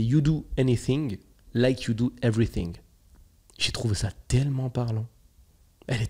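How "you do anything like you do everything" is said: slow English quote with a French accent. Real, not acted. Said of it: "en anglais avec mon accent incroyable". (anglais lent à l'accent français)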